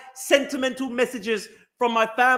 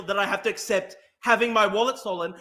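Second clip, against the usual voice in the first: usual speaking voice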